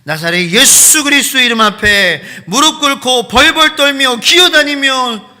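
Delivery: loud, high, slow fervent proclamation; preaching at full force. Acted. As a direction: thunder it from the pulpit. Preaching climax.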